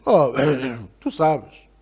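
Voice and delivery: hedging, throat-clearing dodge; mock awkward husband stalling with a throat-clear; lightly voiced awkward husband. Husband dodges saying "I love you", mock awkward. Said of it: "E ele vai e diz".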